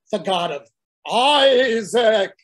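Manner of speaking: slow, loud exasperated shout of Isaac; God insisting. Acted. God shouts his name again at a blank Moses. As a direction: shout it to make him finally get it. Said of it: "And God says".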